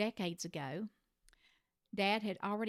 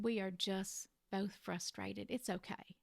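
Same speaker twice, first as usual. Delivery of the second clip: gentle reassurance; 4 dB quieter than usual. Retold or imitated. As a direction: ease her hurt kindly, a little softer. Comforting mom after her apology.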